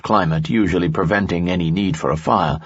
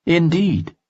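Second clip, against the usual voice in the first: higher, courtly nobleman voice; a charming noble, pitched up; Lanson's voice; 11 semitones higher than usual. Acted. Lanson speaks in story.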